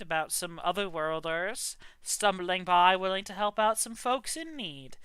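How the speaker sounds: easygoing storyteller telling of the witch; a hint of a folksy old-timer spinning his tale; lightly voiced folksy traveler. Traveler telling the party his tale, lightly folksy. GM narrates as NPC.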